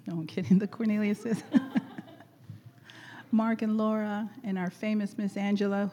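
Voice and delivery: normal talking voice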